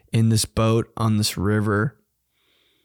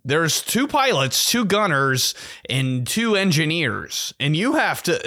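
Star Wars guide voice; 4 semitones higher than usual. Retold or imitated. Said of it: "a guy from Star Wars".

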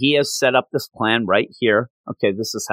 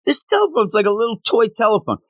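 excited; 9 semitones higher, faster than usual. Real, not acted. Amused description of tiny phone.

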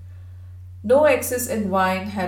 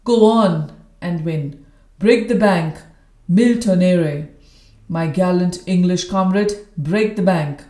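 loud cry; 6 dB louder than usual. Acted. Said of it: "cried my military friend".

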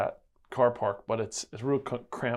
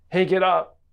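sharp loud call, higher and louder; mom's third wake-up call, no more patience; even louder; 8 semitones higher, 12 dB louder than usual. Retold or imitated. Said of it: "like, even louder".

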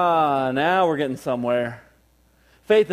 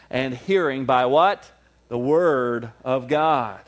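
call and response; 3 semitones lower, slower than usual. Acted. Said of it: "call and response".

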